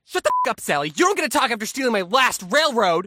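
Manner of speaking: acted board game outburst; snapping sibling. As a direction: tell off a little sister in a huff. Acted sibling snaps at Sally.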